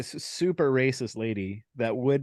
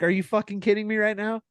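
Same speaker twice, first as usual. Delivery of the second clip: retold outrage; 8 semitones higher, faster than usual. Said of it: "I'm like".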